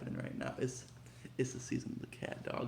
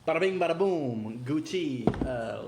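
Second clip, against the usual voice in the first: hyped reveal; 3 semitones higher, 8 dB louder than usual. Real, not acted.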